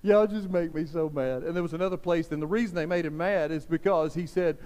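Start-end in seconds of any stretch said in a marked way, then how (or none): 0.0-1.4 lightly voiced frustrated Jesus, lower; a hint of exasperation at the Pharisees; mild exasperated Jesus. Pastor voicing Jesus frustrated with the Pharisees, mildly exasperated. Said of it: "And he was just like".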